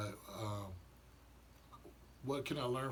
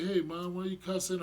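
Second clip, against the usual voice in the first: put-on higher, louder kid asking; a kid calling out mom's cussing; questioning child, higher and louder; child's voice; 7 semitones higher, 4 dB louder than usual.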